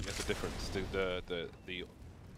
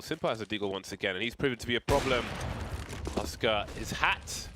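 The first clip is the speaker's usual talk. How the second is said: esports caster. Acted. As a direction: call the round, then the big reveal. Casting live match play-by-play.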